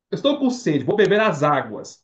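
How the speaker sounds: mock-formal "as águas"; stilted plural. Shown as a demonstration. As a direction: carefully sound every s in "as águas". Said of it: "É assim que você fala?".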